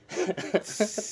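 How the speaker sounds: high giggle held back; trying not to laugh; stifled giggles. Real, not acted. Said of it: "¿Por qué no te aguantas la risa".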